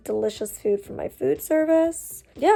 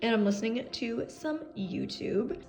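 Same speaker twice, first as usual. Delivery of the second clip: mouth full; 5 dB quieter than usual. Real, not acted. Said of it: "I have literally watermelon in my mouth".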